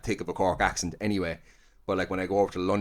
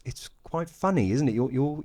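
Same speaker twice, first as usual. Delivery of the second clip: imitating English client; 5 semitones higher than usual. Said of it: "the whole time she's like".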